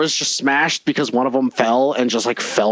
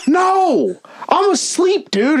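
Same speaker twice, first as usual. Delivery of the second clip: higher, louder half-asleep protest; groggy retort; 3 dB louder, much slower than usual. Retold or imitated. Answering the midnight stranger, high mock-groggy protest. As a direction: play yourself woken up and baffled.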